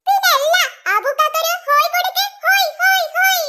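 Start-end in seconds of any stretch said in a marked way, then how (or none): 2.4-3.4 lively call-out of a cheer; leading a cheer. Acted. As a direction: start the chant, fairly loud.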